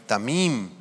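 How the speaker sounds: "tamim" said alone, accent on its last syllable, ta-MIM; stress on final I. Shown as a demonstration. Preacher demonstrates the Hebrew word, "tamim" stressed on the final I. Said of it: "con acento en la I".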